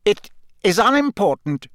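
cold. A narrator's reading. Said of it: "said Snape coldly".

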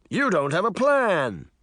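exclaiming. A narrator's reading. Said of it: "Mirror exclaimed".

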